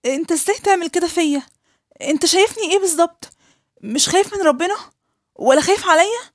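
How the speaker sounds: betrayed fiancée raging at him; outraged accusation. Acted. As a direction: rage at the man who drugged you. Betrayed woman confronts her fiancé.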